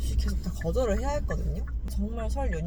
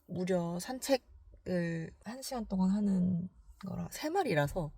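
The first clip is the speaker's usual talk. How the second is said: whispering; 4 semitones lower, 8 dB quieter than usual. Real, not acted. Quiet narration at arrival.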